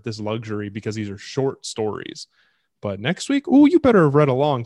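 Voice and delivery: loud, showman-style teaser; announcer voice. Pretend. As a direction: hype it up like a ringmaster. Mock announcer teaser for next week.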